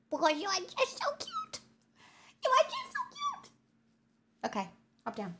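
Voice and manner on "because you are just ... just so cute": high, squeaky half-crying coo; cute-overload whimper. Real, not acted. Streamer cooing at the dog, squeaky near-tearful coo. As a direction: melt over how cute he is.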